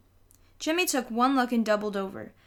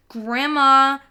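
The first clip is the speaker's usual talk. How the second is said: loud high yell for help; little boy yelling for Grandma; cry out; 4 semitones higher, 11 dB louder than usual. A narrator's reading. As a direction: shout for Grandma. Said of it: "Fudge cried".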